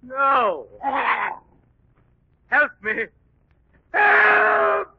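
high shouting for help; terrified screams. Acted. Villain attacked by the beast, terrified screaming.

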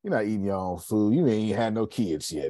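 a hint of playful flattering protest; imagined chef's banter. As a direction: tease her in mock disbelief, settling toward normal pitch. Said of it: "I wanted to be like".

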